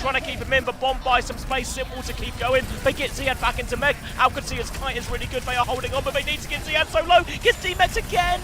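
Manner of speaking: high, loud hype play-by-play; excited esports caster. Real, not acted. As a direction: call the fight with rising excitement. Hype casting of teamfight.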